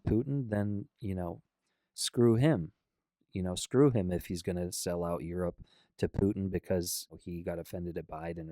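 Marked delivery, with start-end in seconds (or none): 1.9-6.5 getting emotional. Real, not acted. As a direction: let real frustration burst out at the politician. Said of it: "pardon me getting a little emotional".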